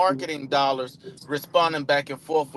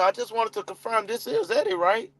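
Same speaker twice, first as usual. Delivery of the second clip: higher, friendly and bright; upbeat check; 6 semitones higher than usual. Shown as a demonstration. Caller confirming the lead's name, upbeat. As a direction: confirm his name with pep. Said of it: "I hit 'em with that".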